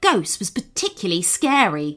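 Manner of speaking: a hint of a tiny wizard mouse.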